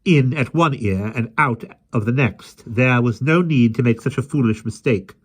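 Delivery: scolding. A narrator's reading. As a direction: tell the dog off properly. Mary scolding the lion.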